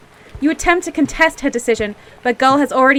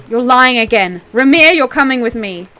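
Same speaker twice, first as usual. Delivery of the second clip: louder, accusing border guard; angry guard; 6 dB louder than usual. Acted. Guard arresting Ramir, louder and angry. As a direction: arrest him with an angry bark. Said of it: "they were speaking in an angry voice".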